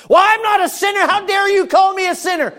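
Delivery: high indignant outburst, hammed up; imitating an offended listener; mock offended sinner. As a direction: play the affronted churchgoer. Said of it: "I am not".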